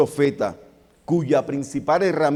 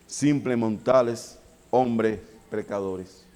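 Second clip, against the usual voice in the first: slow; 4 semitones lower, slower than usual. Acted. Repetición lenta.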